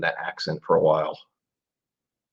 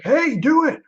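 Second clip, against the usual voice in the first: higher, put-on bossy voice; pushy demand; slower than usual. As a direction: mimic nagging a moderator. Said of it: "I don't like to be like".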